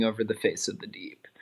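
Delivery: whispered, as if reading a sacred verse; whispered Bible line; hushed scripture reading. Acted. Reading Genesis verse aloud.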